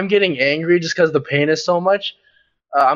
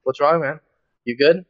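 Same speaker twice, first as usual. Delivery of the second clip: teasing. Retold or imitated. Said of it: "with a shit-eating grin".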